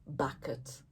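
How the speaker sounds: a hushed storytime whisper. Acted. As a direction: whisper it like a little secret to the kids. Secret of the invisible bucket.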